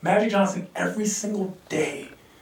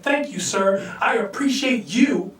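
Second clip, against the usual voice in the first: sincere thanks; slower than usual. Retold or imitated. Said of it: "and said".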